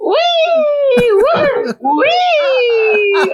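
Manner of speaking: repeated high-pitched wee and woo; drunk gleeful squeals. Retold or imitated. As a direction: whoop like a giddy drunk with arms up. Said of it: "five minutes of me running around".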